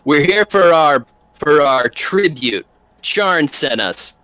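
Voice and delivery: a lightly voiced thug, slow and deliberate; a hint of a menacing enforcer; demanding thug. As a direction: lean on each word like a collector. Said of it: "and he says".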